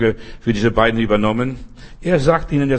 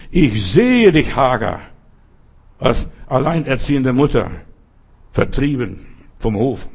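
voice of God. Acted. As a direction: speak as God comforting her. God speaks to Hagar.

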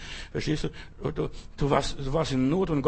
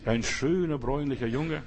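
tender. Shown as a demonstration. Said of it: "In aller Liebe".

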